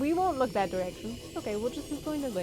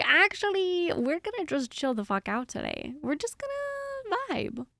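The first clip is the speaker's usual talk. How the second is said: voicing the chill dog; 7 semitones higher than usual. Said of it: "He's like".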